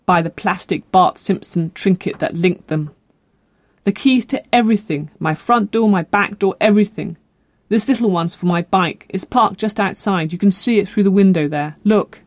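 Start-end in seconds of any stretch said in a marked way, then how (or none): 3.8-12.2 lightly voiced girl, eager to convince; mild, hopeful urgency; pleading girl. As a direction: offer proof as an anxious young woman.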